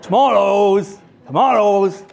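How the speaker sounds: loud street-seller call, stretched out; hawking tomatoes to passing shoppers, booming; booming market trader. Retold or imitated. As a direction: bellow it across the market stall. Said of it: "But in a really booming voice".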